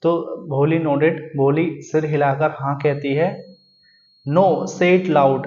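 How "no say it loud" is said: very slow, a bit louder, each word spaced; deliberate teacher's reading; slow read-aloud. Shown as a demonstration. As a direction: spell it out slowly for the class. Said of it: "अब उनकी teacher कह रही है".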